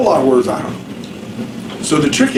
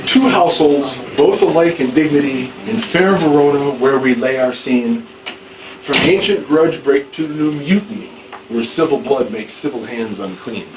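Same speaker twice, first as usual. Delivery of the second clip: plain formal recitation of verse; recited verse. Shown as a demonstration. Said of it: "not the way I just did".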